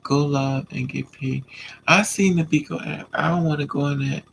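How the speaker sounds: normal talking voice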